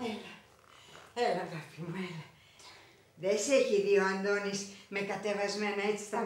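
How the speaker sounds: soft doting voice; softly affectionate; tender murmur. Acted. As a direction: dote on her while combing. Tender talk while combing.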